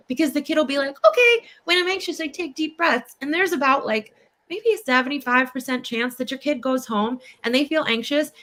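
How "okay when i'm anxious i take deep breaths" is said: higher, lightly voiced obedient child; eager kid agreeing. Kid parroting the therapist's advice, higher eager voice. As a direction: recite it like a keen kid.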